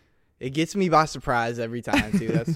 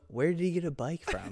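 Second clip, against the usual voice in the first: laughing punchline; 4 semitones higher, 7 dB quieter than usual. Retold or imitated. Punchline mused while laughing.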